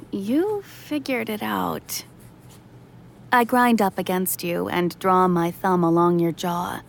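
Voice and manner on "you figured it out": slow, drawn-out tease; teasing reply. Acted. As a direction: tease them softly, drawing it out.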